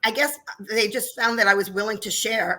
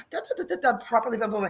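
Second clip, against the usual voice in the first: put-on Angela's accent; 3 dB quieter, faster than usual. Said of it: "And the accent really goes a long way".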